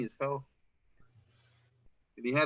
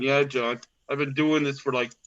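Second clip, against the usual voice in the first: imitating Roger; 4 semitones lower, slower than usual. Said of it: "Roger's going".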